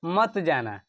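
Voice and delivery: slight pause between मत and जाना; मत, a short halt, जाना; pause between words. Shown as a demonstration. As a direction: say मत, hold briefly, then जाना. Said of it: "उच्चारण में जो विराम आता है".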